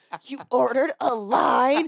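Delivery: mock outrage. Retelling how a woman reacted to a shared ride, imitating a furious woman. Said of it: "She literally just was furious".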